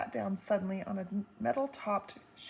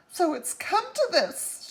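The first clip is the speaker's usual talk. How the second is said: despairing Homily; 10 semitones higher, 8 dB louder than usual. A narrator's reading.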